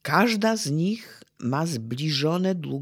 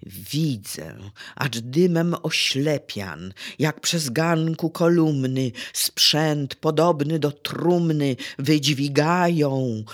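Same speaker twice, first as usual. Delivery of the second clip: narastająca dramatyczna deklamacja; prowadź do kulminacji, coraz mocniej; recytacja wiersza; 3 dB louder than usual. Acted. Recites burning Warsaw passage. (wykładowca deklamuje scenę płonącej Warszawy)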